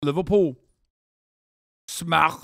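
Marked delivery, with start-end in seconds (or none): 1.9-2.3 SMACK with a throaty, fricative final K; Scouse K. Retold or imitated. Streamer copies Liverpool speaker, SMACK with raspy Scouse K. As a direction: scrape the end of "Smack" like a Scouser. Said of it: "With the fucking K, w-, with a C K, with a k".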